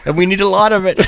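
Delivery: quoting locals. Retold or imitated.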